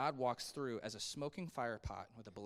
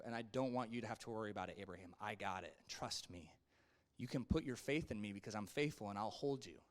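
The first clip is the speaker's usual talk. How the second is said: low, softened reassurance; calm and steady, asking to be trusted; reassuring; 4 semitones lower, 3 dB quieter than usual. Acted. God telling Abraham not to worry, gently reassuring.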